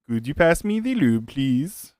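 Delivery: put-on a light, joking Dutch accent with a falling finish; retry the request in a put-on Dutch accent; mock Dutch accent. Streamer corrects himself and asks for the lube, in a mock Dutch accent. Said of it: "Is that how the Dutch pronounce it?".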